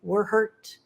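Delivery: tender, unhurried reassurance to a hurt listener; loving reassurance. Real, not acted. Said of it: "lovingly say to you".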